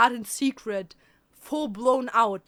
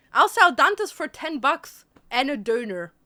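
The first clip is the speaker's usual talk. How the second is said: loud; 6 dB louder than usual. Acted. Mock auction to chat.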